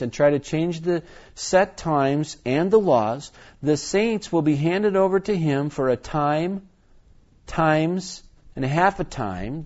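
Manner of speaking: emphatic reading, drawing out the key phrases; scripture reading. Acted. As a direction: read the prophecy out deliberately.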